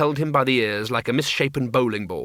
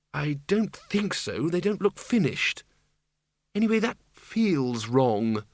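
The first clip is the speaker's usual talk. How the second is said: growl; 4 semitones higher, slower than usual. A narrator's reading. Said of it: "Lupine growled".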